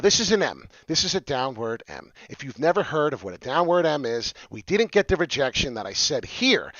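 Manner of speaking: ordinary talk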